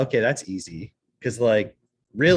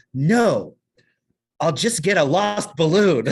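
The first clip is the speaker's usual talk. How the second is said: put-on little girl voice; 5 semitones higher, 4 dB louder, much slower than usual. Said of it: "And she goes".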